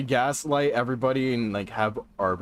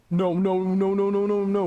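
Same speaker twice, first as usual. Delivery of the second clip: high, louder, frantic repeated no; panicked no's; 10 semitones higher, 4 dB louder than usual. Real, not acted. Streamer losing track of the hunter, frantic and high. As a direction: blurt it out, scrambling in fear.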